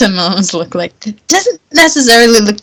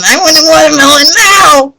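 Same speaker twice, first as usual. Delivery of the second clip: gremlin demand; 7 semitones higher than usual. Retold or imitated. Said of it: "Like a little gremlin".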